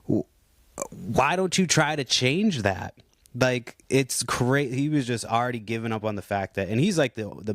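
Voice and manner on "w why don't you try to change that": slow, higher, half-laughing jab; mocking retort. To the manager, a slow, laughing mock challenge. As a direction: laugh while pressing the point, slowly. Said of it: "I'm like".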